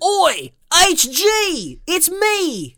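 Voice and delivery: loud, high-pitched bad British holler; hammed-up British, drifting into Australian; terrible British accent. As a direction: call out in a botched British accent. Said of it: "I do a terrible British accent".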